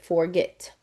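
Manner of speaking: forget with the stress landing hard on "get"; stressed final syllable. Shown as a demonstration. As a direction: punch the end of forget, get. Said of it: "You can hear how it's got that harsh consonant on the end of it".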